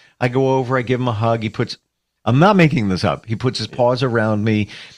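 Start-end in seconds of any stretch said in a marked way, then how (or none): none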